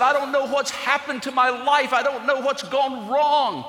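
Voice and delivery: a touch of a broken man's sob; retold sobbing. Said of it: "started crying uncontrollably".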